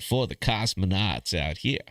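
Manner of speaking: slow, muddled put-on accent; drawn-out wandering accent, loosely imitated; Matthew McConaughey. Host redoing his cosmonaut line for the show, slow put-on accent. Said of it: "I nailed that Matthew McConaughey".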